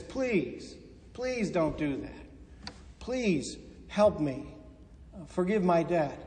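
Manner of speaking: soft, slow, pleading plea; a debtor on his knees pleading softly with the loan shark; begging. Retold or imitated. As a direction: beg for mercy, quiet and drawn out. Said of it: "he falls to his knees and he begs".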